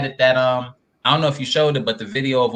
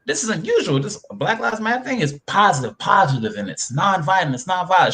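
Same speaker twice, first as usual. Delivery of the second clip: mock surprised; 4 semitones higher than usual. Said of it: "I'm like".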